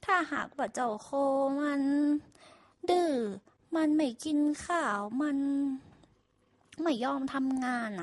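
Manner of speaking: lightly voiced farmer instructing; farmer's order. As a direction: farmer tells workers about the ox. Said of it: "ไปสั่งลูกน้องเลยว่า".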